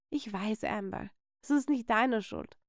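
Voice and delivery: soft, downcast reassurance; hushed, hurt reply; subdued forgiveness. Acted. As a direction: let your cousin off the hook quietly. Hurt cousin forgives softly.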